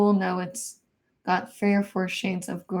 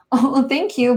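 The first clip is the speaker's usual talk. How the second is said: laughing thanks; 6 semitones higher, 6 dB louder than usual. Real, not acted. Flattered by a viewer's compliment.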